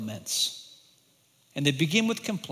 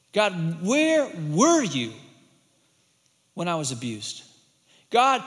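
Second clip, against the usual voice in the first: acted lament; 3 semitones higher, 4 dB louder, slower than usual. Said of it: "record your losses and lament".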